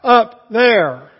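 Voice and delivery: loud, high call for anyone else; desperate yell. Retold or imitated. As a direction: bellow up the cliff, hoping for someone new. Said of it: "Jack let out another yell".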